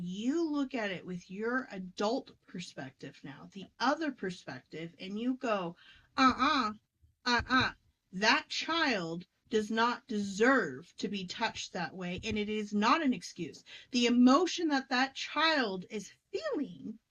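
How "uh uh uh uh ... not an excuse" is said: firm refusal. Acted. Adult self defending the inner child, firm. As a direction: put your foot down for the child.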